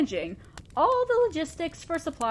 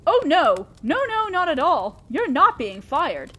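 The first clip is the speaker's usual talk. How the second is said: louder, quick "oh no, not at all"; hasty alarmed reassurance; 3 semitones higher, 6 dB louder than usual. Acted. Demon lord to his human minion, hastily alarmed reassurance. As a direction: rush to calm a startled employee.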